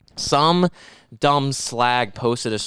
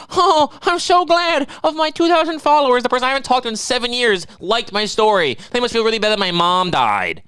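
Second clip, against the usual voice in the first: very high falsetto mock gush; mock poster; 9 semitones higher than usual. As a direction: parody a self-pitying poster. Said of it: "Does it really feel better".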